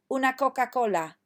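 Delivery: teacher modelling Spanish Coca-Cola; model Spanish. Shown as a demonstration. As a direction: clear model phrase. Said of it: "So say after me".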